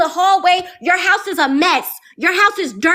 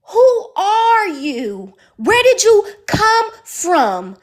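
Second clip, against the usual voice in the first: indignant; 3 semitones higher, much slower than usual. Retold or imitated. Confronting roommate's friends.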